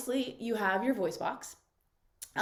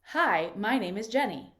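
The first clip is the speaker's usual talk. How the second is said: brows raised, a brighter, lifted tone; eyebrows lifted. Shown as a demonstration. Coach demos the eyebrows-up voice for contrast, lifted. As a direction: lift the brows and let the voice rise. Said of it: "I'm gonna lift my eyebrows".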